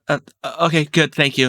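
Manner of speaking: flustered NPC. Acted. GM voices flustered quest-giver NPC.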